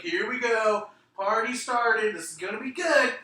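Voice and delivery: high, loud drawn-out cheer; retold hype. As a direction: stretch it out like a hyped-up fan. Voicing excitement at music hit.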